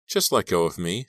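controlled, tense request; firm plea with fear held in; forced steadiness. Acted. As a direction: hold the tremble back. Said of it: "forcing her voice not to tremble".

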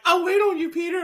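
imitated devoted girlfriend; mock sweetheart voice. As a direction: promise it in a high voice. Voicing Mary Jane in retelling.

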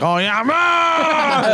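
very high, very slow squeal; mock excited guy. Imitating the man, very high and drawn out. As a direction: stretch it out high like a giddy fool. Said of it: "He's like".

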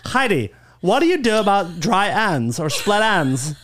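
slow lightly hammed Valley girl. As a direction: gush about hair and bags slowly. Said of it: "a Valley girl".

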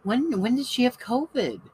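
mock-shocked nurse finding antibodies. Nurse reacting to Lily's test result, high mock shock. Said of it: "Comes back, she goes".

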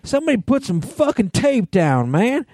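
high-pitched, hammed-up angry outburst; furious rant. Man imitates his friend after falling on the guitar, furious high rant. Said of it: "and he was furious".

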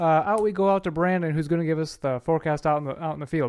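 mock news anchor handoff. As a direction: toss it to the field reporter. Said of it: "putting on a news voice".

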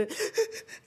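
high, shuddering intake of breath; mock sobbing breaths, no words; imitated sobbing gasps. Shown as a demonstration. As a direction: mimic the catch of breath after crying. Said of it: "ese llanto del que tú dices".

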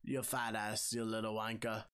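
mock old man with a British accent; scolding in a put-on British accent. Co-host voicing a favourite old side character, British accent. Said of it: "I do it in a British accent".

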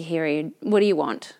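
mildly bored server's flat tone; flat, uninterested. Retold or imitated. Unfriendly waitress taking a brunch order, flat and uninterested. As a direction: toss it out with no interest. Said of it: "Like that flat, not interested tone".

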